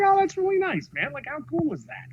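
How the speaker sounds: high-pitched, touched reaction; retold delight. Director reacting to his buddies' birthday present, retold delight. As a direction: replay being sweetly pleased by a gift.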